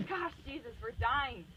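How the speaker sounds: high, panicked cry to a sleeping Jesus; panicked disciples. Retold or imitated. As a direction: plead in mild mock panic.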